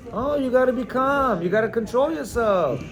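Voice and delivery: lightly acted condescending reproach; Mister Chill husband. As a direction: lecture her with put-on calm superiority. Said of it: "showing himself off as a, as the Mister Chill".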